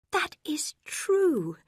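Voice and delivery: high, very slow, breathy and bright; suddenly cheerful. A narrator's reading. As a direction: brighten at a new hope. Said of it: "cried Marianne, suddenly cheerful".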